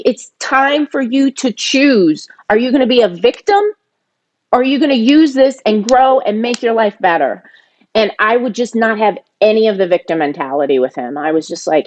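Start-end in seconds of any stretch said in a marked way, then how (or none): 0.0-7.4 higher, insistent pitch; emphatic retold challenge; retold ultimatum. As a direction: press him to make a choice. Retold firm talk to her brother.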